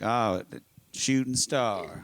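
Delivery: slow, dreamy awe; awed. Retold or imitated. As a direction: marvel at it slowly. High on shrooms, staring.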